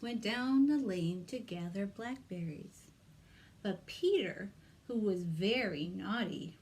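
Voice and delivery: lively read-aloud for little ones; story narration. Acted. Librarian reads Peter Rabbit to children, storytelling voice. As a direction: tell it like a picture-book reading.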